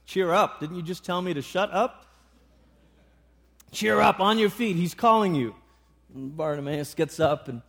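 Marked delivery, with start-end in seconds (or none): 0.0-2.0 mildly incredulous echo of an order; puzzled retort. Acted. Acted puzzled reply to gruff voice. 3.7-5.5 brusque, lightly acted urging; gruff, rough voice. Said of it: "that gruff, rough voice speaks again".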